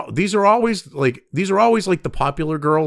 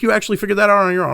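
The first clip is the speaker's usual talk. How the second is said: quick, higher retold question, mildly amazed; unsarcastic surprise; 5 semitones higher, much faster than usual. Coworker asks him about his guess, mild retold surprise. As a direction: imitate sincere surprise in a rush. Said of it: "not sarcastically figured out on your own".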